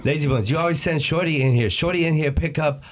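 lightly put-on Chinese accent; Chinese-accent impression of a restaurant worker; imitated Chinese accent. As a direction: scold like the takeout lady, mock Chinese accent. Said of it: "there's this Chinese place".

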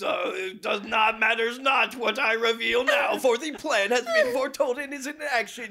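booming evil overlord; villain proclamation. Acted. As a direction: declare it to puny mortals. Santa menaces puny mortals.

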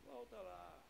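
very soft, hushed order; hushed command. Acted. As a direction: say it under the breath. The Lord repeats his order.

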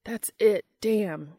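triumphant loud cheer; crowing in triumph. Acted. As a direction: crow it like you just won. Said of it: "Dean crowed in triumph".

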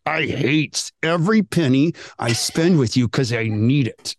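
slow, grudging complaint; begrudging payment. Retold or imitated. Customer paying the mechanic because they must, slow and begrudging. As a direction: drag it out as if parting with each coin.

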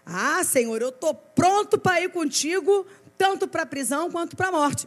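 high, emphatic overconfident vow; acted cocky bravado, drawing out the big words; full of himself. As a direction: swear it grandly, puffed up with confidence. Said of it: "todo cheio".

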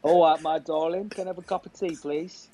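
lightly put-on Cockney; playful Southern English, Cockney-style; Cockney impression. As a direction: order like a London Cockney charmer. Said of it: "I didn't expect the Cockney".

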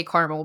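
"caramel" as plain two-syllable CAR-mul. Shown as a demonstration. Host picking the unfancy version for Aldi, "caramel" as CAR-mul. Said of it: "because it's really not fancy".

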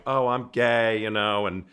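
mock dramatic gay stereotype. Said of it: "Instead of walking in a room going".

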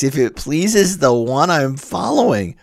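a lecturer stressing the hidden nod to Virgil; stress on following. Shown as a demonstration. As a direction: point the listener at "following". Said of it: "oblique reference to Virgil".

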